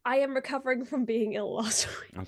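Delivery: stuffed-up nose, congested; blocked nose. Real, not acted. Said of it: "if I sound a bit stuffed up".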